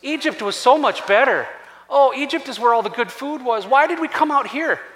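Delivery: put-on lament; mock complaining. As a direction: imitate a crowd griping about their lot. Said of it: "sounds like the Israelites in the wilderness".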